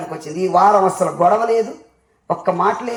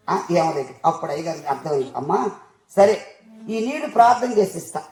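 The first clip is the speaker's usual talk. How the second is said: normal talking voice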